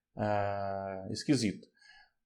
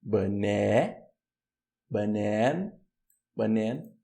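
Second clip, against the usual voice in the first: "Banan" built up slowly, the second syllable long; reduced "ba", then a stressed, held "nan" in "Banan"; 3 semitones lower, much slower than usual. Shown as a demonstration. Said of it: "Esse tracinho aqui indica a sílaba tônica". ("Banan" com a segunda sílaba tônica)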